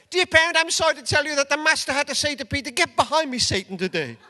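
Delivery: mock school report. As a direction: rattle off a mock letter to a parent. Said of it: "there were school reports around".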